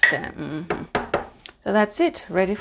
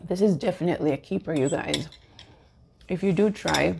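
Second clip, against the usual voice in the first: mouth full. Real, not acted. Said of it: "sorry for talking with food in my mouth".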